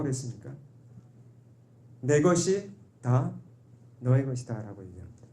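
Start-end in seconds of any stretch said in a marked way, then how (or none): 2.0-4.8 slow, soft fatherly assurance; father reassuring his elder son; gentle father. Retold or imitated. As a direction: tell him tenderly all is his. Quoting the loving father slowly.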